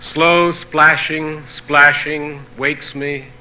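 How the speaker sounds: slow, drawn-out opening, settling at the close; poetry reading. Acted. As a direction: recite the little poem slowly, phrase by phrase. Reads a short translated poem.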